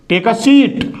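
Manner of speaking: long ee in "सीट"; long vowel. Shown as a demonstration. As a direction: stretch the ee of "सीट". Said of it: "long sound". ("सीट" में लंबी ई)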